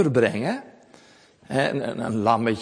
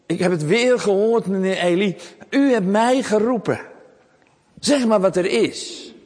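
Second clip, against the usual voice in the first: jongen Samuel; 6 semitones higher than usual. A narrator's reading. Samuel komt weer bij Eli.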